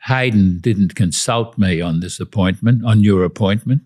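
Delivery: light imitation of a broad Australian accent; a hint of broad Australian Prime Minister; Hawke's broad Australian accent. Guest mimics Bob Hawke's gruff complaint in broad Australian accent. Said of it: "I'm mimicking his broad Australian accent".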